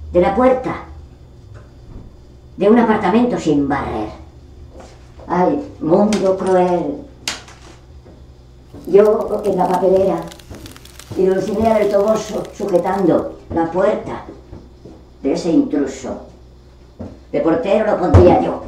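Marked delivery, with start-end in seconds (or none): 5.3-12.4 theatrical wail. Acted. Discarded character bewails a cruel world, theatrical wail. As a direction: stretch it out like a tragic stage hero.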